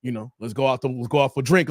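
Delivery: lightly imitated London English charmer; Idris Elba London accent. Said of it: "with his London English accent".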